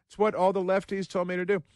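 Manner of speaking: high, mocking voice of a smug liberal driver; put-on high voice sneering at a Tesla-driving liberal; mocking liberal woman. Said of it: "She's like".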